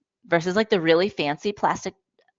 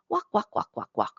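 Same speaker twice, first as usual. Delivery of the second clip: put-on child copying; 5 dB quieter than usual. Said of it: "they're saying".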